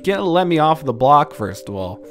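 mocking friend. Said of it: "He was like".

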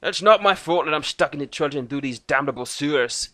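gruff Celtic dwarf voice; Irish-Scottish dwarf. A narrator's reading. Dwarf Thorgan answering Lucas, Scottish-Irish brogue. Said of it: "Irish, Scottish".

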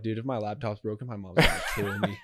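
breaking into a laugh at the end. Retold or imitated. Retelling the crash to a friend, laughing. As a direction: laugh at your own silly thought. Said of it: "And my first thought was like".

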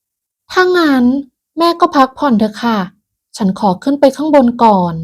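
high, drawn-out bored daughter-in-law. Acted. Daughter-in-law brushing off her mother-in-law, bored. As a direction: sigh it off like she can't be bothered. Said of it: "ด้วยน้ำเสียงเบื่อหน่าย".

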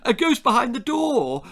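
put-on high, loud child's squeal; excited squeal. A narrator's reading. Child squealing a guess at grandma, excited. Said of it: "I squealed".

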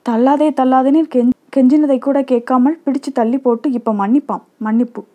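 bitter scoffing at the apology, understated; seething retort. Acted. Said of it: "கொதிப்போடு கூறிவிட்டு".

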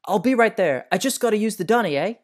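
put-on Australian accent. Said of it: "someone from Australia".

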